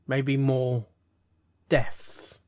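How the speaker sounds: a hint of a slow, ominous Snape; Snape impression. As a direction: drop into a lightly voiced brooding professor. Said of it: "That sounds so much Snape".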